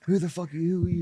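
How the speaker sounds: mock a Croatian player's accent. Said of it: "Fake Croatian accent".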